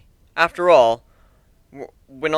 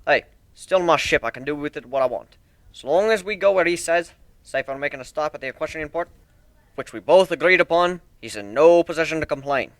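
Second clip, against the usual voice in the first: lightly voiced proud shipbuilder; 3 semitones higher, 4 dB louder than usual. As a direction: show off your ship like a proud craftsman. Steelhorn defends his choice.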